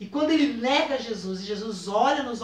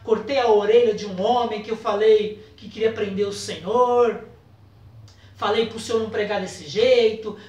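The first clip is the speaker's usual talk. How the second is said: louder, driving list of failings; a preacher voicing Peter's impassioned confession; fervent preaching; 5 dB louder than usual. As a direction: build the confession with growing fervour. Peter lists his failings.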